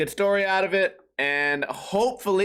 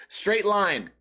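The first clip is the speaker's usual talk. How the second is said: ordinary delivery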